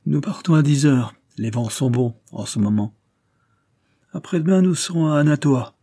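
a lightly voiced bluff sea captain, teasing; jovial skipper. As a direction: rib him like a hearty old skipper. Skipper boasts about voyage. (capitaine jovial et moqueur, voix légèrement jouée)

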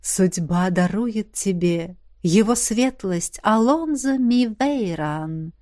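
very slow, solemn proclamation; deep velvety voice. A narrator's reading. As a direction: intone it like fate itself. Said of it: "разлетелся над садом глубокий бархатный голос". (бархатно, медленно и торжественно)

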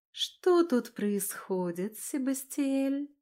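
slow, silky and dangerously gentle; sweet voice hiding a threat; slow honeyed menace; deceptively sweet. A narrator's reading. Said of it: "Обманчиво ласковым голосом".

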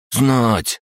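high, glum crab voice; dejected crab. Acted. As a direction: say it downcast, like the crab. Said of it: "понурился он".

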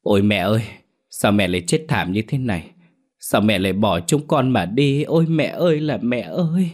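a grieving son's cry, rising to a high wail at the end; wailing lament. Acted. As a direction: heartbroken wailing for a dead mother. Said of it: "gào lên thảm thiết".

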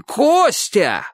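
high, excited call of the name; delighted shout. A narrator's reading. Roof man hails Kostya, delighted shout. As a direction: cry out with joy. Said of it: "восторженно закричал".

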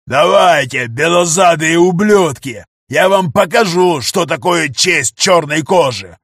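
furious warrior hollering at his pursuers; yelling defiance. Acted. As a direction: roar it at the enemy, drawn out. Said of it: "Негр продолжал орать".

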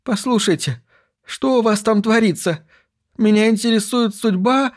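a pushy store director demanding answers; businessman voice. A narrator's reading. Voices the commercial director's message. (голос нетерпеливого директора)

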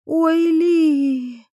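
high, dismissive snort of a line; scoffing. A narrator's reading. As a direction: brush him off with a scoff. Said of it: "фыркнула Иветта".

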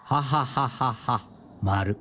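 dictating each syllable slowly; measured dictation voice. Real, not acted. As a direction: spell it out slowly for her to write. Husband dictates to writing wife.

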